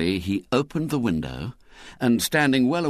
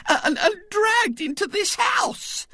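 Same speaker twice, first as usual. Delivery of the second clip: tearful Missus Bott. A narrator's reading. Missus Bott tearfully telling her husband of the kidnapping. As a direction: quaver it out like a frightened mother. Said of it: "she was saying tearfully".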